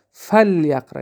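"فلیقرأ" with no vowel after the L; sukun on the lam. Shown as a demonstration. Teacher demonstrating the example to students, lam with sukun. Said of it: "یعنی سکون قطعی".

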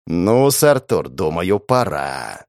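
slow, low, sly devil voice; a hint of a scheming little devil. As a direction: devil on the shoulder egging him on. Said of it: "сказал дьяволёнок".

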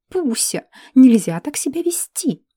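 fussy owner scolding a pet in a whisper; scolding elf lady. Acted. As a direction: chide «нельзя» in a hushed, fussy voice. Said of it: "вещевала она невоспитанного зверя". (шёпотом отчитывает питомца)

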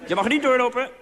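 put-on high, loud child's shout; shrieking child at play; little boy. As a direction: yell it like a small kid playing cowboy.

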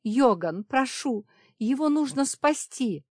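high, loud begging; desperate plea. A narrator's reading. Safira begs Yogan to save Kiran, high loud plea. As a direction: plead with all your strength.

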